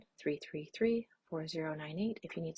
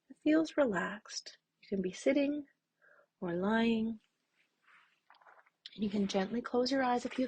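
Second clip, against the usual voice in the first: gentle, unhurried meditation guidance with long pauses; slightly lifted, calm mindfulness-exercise voice; guided meditation; 3 semitones higher than usual. Real, not acted. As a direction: ease listeners into stillness, leaving space between phrases.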